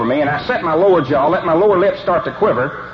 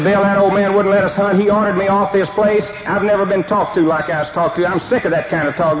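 higher, hammed-up indignant complaint; mock outrage; 4 semitones higher than usual. Coach pretends outrage to his friend Bill, hammed-up indignant. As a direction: fake being furious, playing it up.

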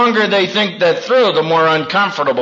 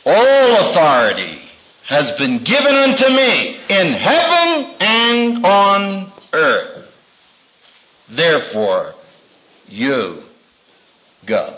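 quoting Jesus. Retold or imitated. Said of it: "Jesus said to them".

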